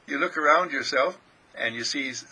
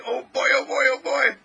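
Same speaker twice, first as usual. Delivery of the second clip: high, loud repeated delight; overjoyed exclaiming; 10 semitones higher, 6 dB louder than usual. Acted. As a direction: exclaim with glee, pitched way up. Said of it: "And you say".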